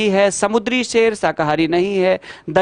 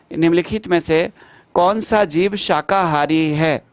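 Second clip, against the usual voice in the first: slow re-read. Shown as a demonstration. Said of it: "question re-read slowly".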